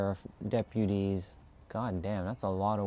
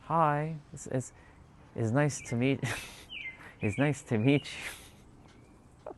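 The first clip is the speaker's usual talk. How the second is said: put-on timid old self; 5 semitones higher, slower than usual. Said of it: "Like, I used to, like".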